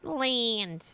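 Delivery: imitated Georgia twang on one word; stretched Georgia-style vowel; mock Georgia accent. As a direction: mimic a questionable Georgia accent. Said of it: "Is that how you talk in Georgia?".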